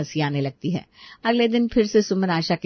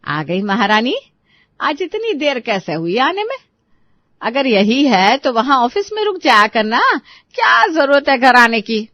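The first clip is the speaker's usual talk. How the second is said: Asha flaring up; 3 semitones higher than usual. Acted. Asha scolds daughter-in-law for coming home late, angrily. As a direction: lay into her with growing anger. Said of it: "आशा उसके ऊपर भड़कने लगती है".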